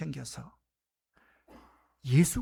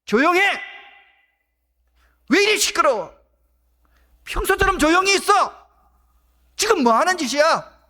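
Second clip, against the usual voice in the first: loud scolding shout, much higher; rebuking crowd; 10 semitones higher, 11 dB louder than usual. Acted. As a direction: snap at him to shut up. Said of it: "꾸짖습니다".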